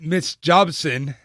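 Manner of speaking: a slow, light hint of an African accent on Miss Jobson. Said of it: "I said that with my best African accent".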